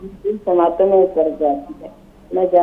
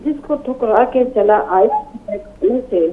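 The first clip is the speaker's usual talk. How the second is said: poem recitation. Acted. Recites a ghazal.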